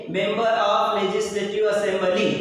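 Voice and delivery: Member of Legislative Assembly very slow, word by word; teacher dictating slowly; slow spelled-out. Shown as a demonstration. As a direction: read the full form slowly for the class. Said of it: "short form है MLA".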